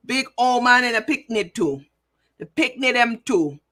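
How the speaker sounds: imitating a bad Jamaican accent; mock patois. Host mocking another woman's fake accent, mock patois. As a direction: mimic a phony Jamaican patois. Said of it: "That motherfucking patois accent is horrible".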